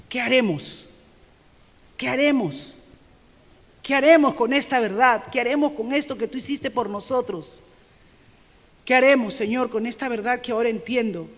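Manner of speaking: desperate question; urgent pleading cry. Acted. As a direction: cry out as the stricken crowd begging an answer. Voicing the repentant crowd.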